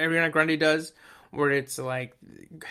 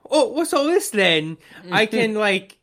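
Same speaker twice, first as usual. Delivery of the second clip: higher, louder, drawn-out mock quote; imitated song character; 6 semitones higher, 6 dB louder, slower than usual. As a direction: play the smitten singer, pitched up. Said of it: "this new person and being like".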